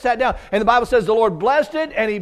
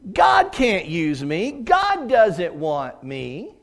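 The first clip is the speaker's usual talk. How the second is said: put-on despairing young man; much slower than usual. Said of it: "My immediate response was".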